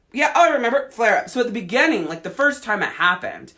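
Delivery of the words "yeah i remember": high, eager voice of the body; the body chirping that it remembers; mock body voice.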